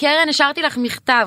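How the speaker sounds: play-acted, very high, yelled-out shout. Recalling a girl who yelled to her about a letter she left, retelling a shout. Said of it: "צעקה לי".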